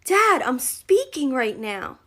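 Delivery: imitating a five-year-old scolding Dad; sassy kid. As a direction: daughter cutting off her father. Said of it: "she goes".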